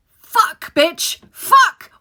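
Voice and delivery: high, loud swearing in panic; panicked curse. Retold or imitated. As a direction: yelp the curses in alarm. Panic at the directions.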